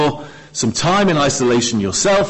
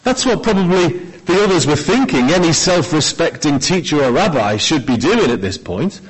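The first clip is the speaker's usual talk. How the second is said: normal talking voice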